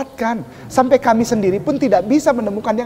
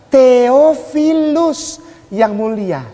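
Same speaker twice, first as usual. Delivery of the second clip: slow solemn reading; much slower than usual. Shown as a demonstration. Reads the opening solemnly.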